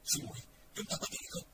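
soft, hushed question; softly. A narrator's reading. Young man softly asking his shaken junior. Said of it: "khẽ nói".

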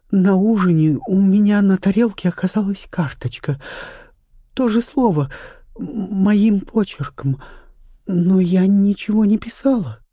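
put-on young actress, frightened. A narrator's reading. Charlotte tells of the card.

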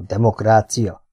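demokrácia sounded out slowly, syllable by syllable; slowly tried out. Acted. Kinizsi slowly sounds out the new word demokrácia. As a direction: test demokrácia like a foreign word. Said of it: "próbálgatta az újonnan hallott szót kimondani".

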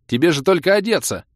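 he is indignant at the delay; exasperated protest. Acted. Ros protests.

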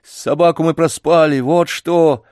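lightly voiced irritated boy; irritated, rude. A narrator's reading. Boy answering grandfather about the lost dog, rudely irritated. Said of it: "раздражённым голосом грубо ответил мальчик".

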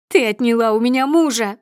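a woman's furious accusation; angry shout. A narrator's reading. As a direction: hurl the blame at her. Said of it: "продолжает она кричать".

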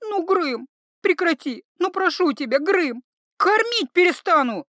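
high, loud begging then threat; beg, then threaten hard; pleading threat. Acted. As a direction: healer threatens the troll. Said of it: "пригрозила она".

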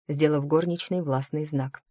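ordinary delivery

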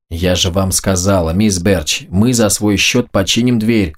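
plain reading voice

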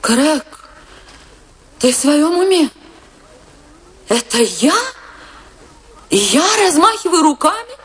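can't believe what she just heard; indignant outrage. Acted. Wife to husband who mocked her art, indignant disbelief.

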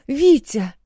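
high, loud frightened shout; alarmed shout of Витя; panicked cry. A narrator's reading. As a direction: scream his name in panic. Wife panics over fallen husband.

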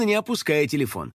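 ordinary delivery, nothing marked

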